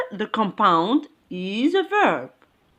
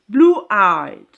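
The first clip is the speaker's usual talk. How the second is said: "Blue-eyed" louder, weight on "eyed"; stress on EYED; 5 dB louder than usual. Shown as a demonstration. Teacher showing where stress falls, "Blue-eyed" stressed on "eyed". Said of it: "It falls here".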